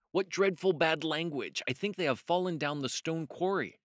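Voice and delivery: high-pitched storybook dismay; storybook rabbit. A narrator's reading. Benjamin reacts to the fight.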